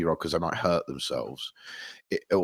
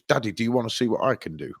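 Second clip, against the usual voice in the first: put-on eager kid question; 3 semitones higher, faster than usual. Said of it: "it'd always be a question".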